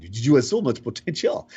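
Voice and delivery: put-on repeated with a light French accent; a touch of French accent, encouraging. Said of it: "in this French accent".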